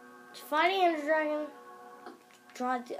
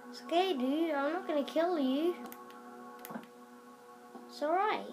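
higher, lilting reassurance; gently reassuring; 3 semitones higher than usual. Pretend. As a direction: soothe a nervous little creature. Reassuring a frightened baby dragon.

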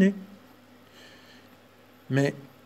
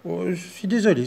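apologetic mouse; 4 semitones higher than usual. Acted. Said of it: "s'excusa la souris".

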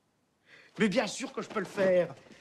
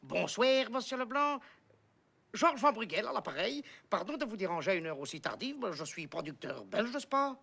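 mock Belgian accent. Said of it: "Je prends l'accent belge?".

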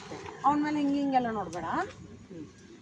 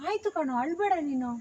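soothing; 5 dB quieter than usual. Shown as a demonstration. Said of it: "ನಿಂದೆ ಹೇಳು".

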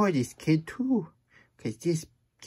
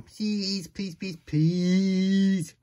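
higher, louder pleading; mock begging; 6 semitones higher, 4 dB louder, much slower than usual. Reader begging the kid for a book with pictures, hammed. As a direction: beg dramatically.

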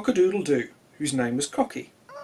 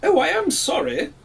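much higher, apologetic little voice; sorry rooster; 12 semitones higher, 4 dB louder than usual. Acted. Cocky apologises to the sun, high and sorry. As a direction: plead sorry in a small high voice. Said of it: "said Cocky".

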